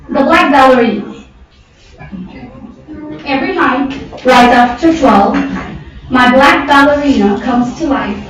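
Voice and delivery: measured recital with pauses between phrases; poem recitation. Acted. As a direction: recite it line by line, phrases falling at the ends.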